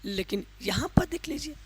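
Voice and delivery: a sudden whisper to the class; whispered aside. Real, not acted. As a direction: drop into a whisper to draw them in. Teacher drops to a whisper.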